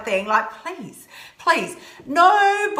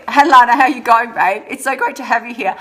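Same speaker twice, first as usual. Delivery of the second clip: playfully louder greeting to a viewer; clowning around; 6 dB louder than usual. Real, not acted. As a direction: ham it up for the live chat. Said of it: "So I'm clowning around a little".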